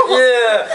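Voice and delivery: high drawn-out mock yell; hammed-up yelp; cry of pain. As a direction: react to wires piercing the skin. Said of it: "and we go".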